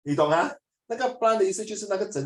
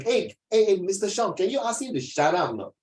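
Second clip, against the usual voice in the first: mildly raised mock-annoyed call; acted student complaint; 3 semitones higher than usual. Student asking Mister Sean to silence a classmate, mock annoyed. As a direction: call out like a fed-up pupil.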